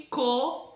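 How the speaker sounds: CO set apart and held; held, separate CO; isolated syllable. Shown as a demonstration. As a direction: present Co as a piece on its own. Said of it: "com duas letras".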